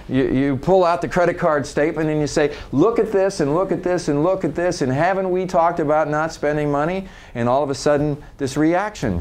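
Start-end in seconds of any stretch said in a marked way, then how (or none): 2.7-7.1 nagging accusation, pitched higher; acted-out money scolding; accusing. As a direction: go through the charges like an exasperated accuser. Acted accusation over card statement.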